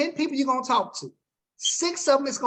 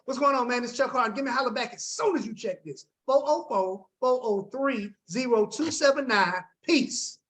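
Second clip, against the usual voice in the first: upbeat voicemail. Shown as a demonstration. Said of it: "That's my voicemail".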